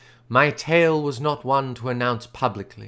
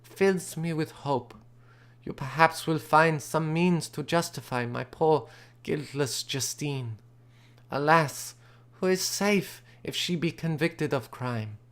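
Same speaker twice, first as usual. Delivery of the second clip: lightly voiced anxious young woman; 5 dB quieter than usual. Elizabeth fearing for Justine, a hint of soft distress. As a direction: plead gently for poor Justine.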